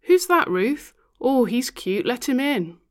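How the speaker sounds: high, loud flirty drag queen; sassy drag queen. Acted. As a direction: tease her with camp delight. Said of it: "a drag queen's voice".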